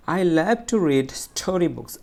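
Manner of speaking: slow sentence with "story books" said strongly; stress on "story books". Shown as a demonstration. Teacher repeating for students, stress on "story books". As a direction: push "story books" above the other words. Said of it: "একটু জোরে".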